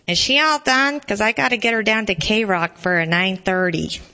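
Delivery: pinched nasal voice. Acted. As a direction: speak through the nose. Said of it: "Bab's nasally voice".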